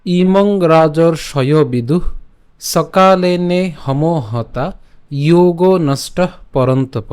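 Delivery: measured, unhurried shloka recital; slow and careful verse chanting; slow Sanskrit recitation. Shown as a demonstration. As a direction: chant the verse slowly, every syllable drawn out.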